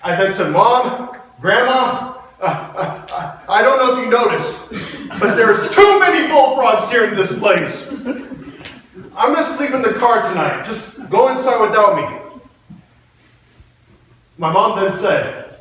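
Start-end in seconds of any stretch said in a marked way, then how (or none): 0.5-12.2 higher-pitched, lightly hammed-up nervous kid; mock scared child. Frightened boy refuses to leave the car, mock scared child. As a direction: play a nervous little boy, raised pitch.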